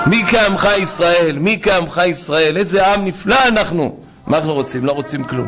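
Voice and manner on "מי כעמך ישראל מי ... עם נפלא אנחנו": raised, excited acclaim; exultant praise. Real, not acted. Preacher praising his people, exultant. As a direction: praise them fervently.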